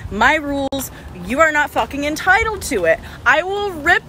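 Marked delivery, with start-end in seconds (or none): 3.3-4.0 slow, deliberate menace; slow threat. Real, not acted. Woman warning future harassers, slow menacing threat. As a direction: spell out the threat word by word.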